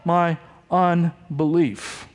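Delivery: restrained desperate plea, "Help" pushed out; mildly acted desperation, drawn out at the end. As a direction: cry for help, then slow right down. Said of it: "there's desperation going on here".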